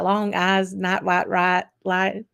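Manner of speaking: light Texas accent, flattened vowels. Shown as a demonstration. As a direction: drawl the words in a Texas accent. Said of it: "I'm gonna have to bring out my Texas accent".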